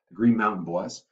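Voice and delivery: a slight Southern accent. Real, not acted. History teacher naming the Vermont militia, slight Southern accent. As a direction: slip lightly into a Southern accent. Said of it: "said that with a Southern accent".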